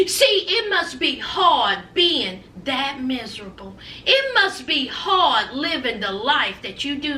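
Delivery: lightly imitated sweet-tea southern accent; a hint of syrupy southern politeness over the dig; Tabitha Brown. Host quoting Tabitha praying for Miss Wendy, sweet southern accent. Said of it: "her sweet tea southern voice".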